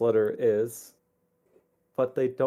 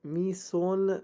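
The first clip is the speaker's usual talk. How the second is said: slow, slightly raised letter voice; lightly voiced letter writer; 8 semitones higher, much slower than usual. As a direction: read it like a pleading parent. Reads letter in character voice.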